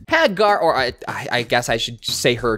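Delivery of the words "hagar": whispered through a laugh, hæɡɑɹ. Real, not acted. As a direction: breathe the name Hagar as a giggling aside. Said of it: "I cannot believe I never saw that".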